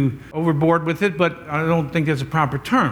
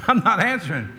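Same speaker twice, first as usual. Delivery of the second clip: laughing; 4 semitones higher than usual. Real, not acted. Jokes about night calls.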